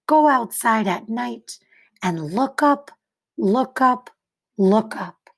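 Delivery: put-on clear, expressive read-aloud to children; story narration. A narrator's reading. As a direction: read it like a picture book for kids. Reads picture book to class.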